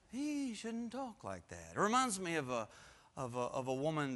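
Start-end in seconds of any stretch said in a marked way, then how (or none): 0.1-1.7 slow, softer disapproving grumble; grumbling critic. Retold or imitated. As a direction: mutter it like a sour critic. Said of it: "They're thinking to themselves".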